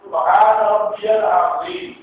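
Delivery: slow, drawn-out recitation of سبحان ربی العظیم; slow recited tasbih. Shown as a demonstration. Teacher to students, recites the prayer words slowly. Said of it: "اصل میں کیا ہے؟".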